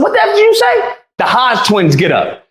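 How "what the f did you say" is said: retold challenge. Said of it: "I said".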